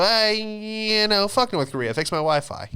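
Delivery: high, loud entitled whine; mock yell. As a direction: yell it like a spoiled guy whose Wi-Fi died. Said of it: "you go".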